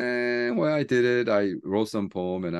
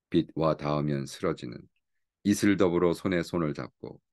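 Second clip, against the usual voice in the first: Korean poem recital; much faster than usual. Acted. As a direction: recite it gently, savouring each line. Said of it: "this I need to read in Korean".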